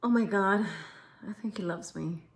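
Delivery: soft, low, hushed swoon; smitten woman. Retold or imitated. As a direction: imitate a woman quietly marvelling that she is loved. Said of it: "you're like".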